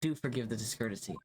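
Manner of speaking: dramatic. Acted. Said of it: "You did not need to be that dramatic".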